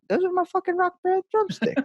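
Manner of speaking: squeaky, very high indignant squeal; a kid's betrayed whine, hammed up; mock outrage. Sees dad with his drumsticks.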